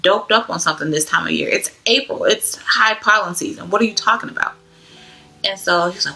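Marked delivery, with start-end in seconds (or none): 0.0-4.5 higher, pleading explanation; exasperated explaining. Retold or imitated.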